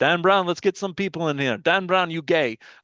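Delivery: put-on heavy, thick Lebanese accent, loud and high. Retelling what Pete used to say on Friday nights, in Pete's thick Lebanese accent. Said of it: "He had a thick Lebanese accent, so ... you can't talk about Pete without talking in his voice".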